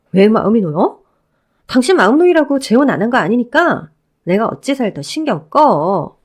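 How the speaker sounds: lightly voiced ex-wife, cold and scornful; a hint of a scornful woman cutting him down. Ex-wife rebuffing her ex-husband, lightly voiced cold scorn.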